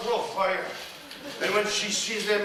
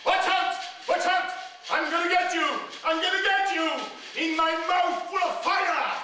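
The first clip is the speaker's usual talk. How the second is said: witch shouting; 9 semitones higher than usual. Acted. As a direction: yell it after them like a witch. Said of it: "And she shouts".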